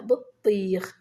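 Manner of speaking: "بطيخ" with the "طي" held long; stretched ya. Shown as a demonstration. Teacher showing pupils madd al-ya, stretched ya. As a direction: draw out the second vowel of "بطيخ". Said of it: "إذن هذا هو مد الياء".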